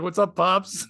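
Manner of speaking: laughing through a mock greeting to an older man. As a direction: chuckle while calling him Pops.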